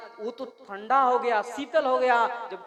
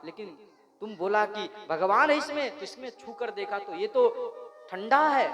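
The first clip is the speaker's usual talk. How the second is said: mocking laughter. Demon king mocks his son.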